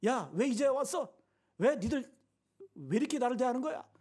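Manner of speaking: mock telling-off of late visitors; scolding. Paul to the late-visiting Philippians, mildly acted scolding. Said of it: "책망하는 거 아니에요".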